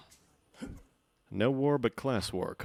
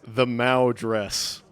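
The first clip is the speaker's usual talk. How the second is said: amused; 5 dB louder, much slower than usual. Real, not acted. Amused at costume.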